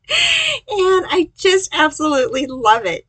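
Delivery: bright, loud, high burst of delight; gushing excitement. Real, not acted. Crafter gushing to viewers over her favorite card, excited and loud. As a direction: gush about how much you love it.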